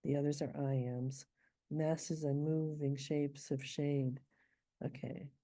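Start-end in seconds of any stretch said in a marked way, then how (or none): 1.7-4.2 slow metered read, MASSES stressed; scanning the meter. Shown as a demonstration. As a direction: lean on the first syllable of "Masses". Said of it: "here we have a trochee".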